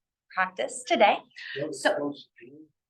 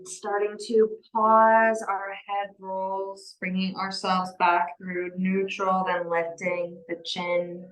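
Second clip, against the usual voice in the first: gentle yoga guidance. Real, not acted. Leads gentle yoga practice.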